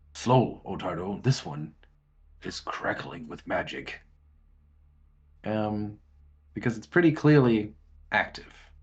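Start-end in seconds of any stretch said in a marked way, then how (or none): 0.1-4.0 hushed whisper under the breath. Voicing Luca warning Otardo from behind: whisper. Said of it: "whisper or, or, or say it under his, his non-existent breath".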